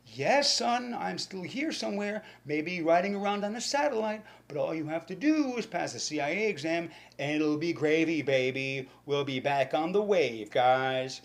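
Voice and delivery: hammed-up ghost dad; dead father's voice. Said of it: "their dead father's voice over and over".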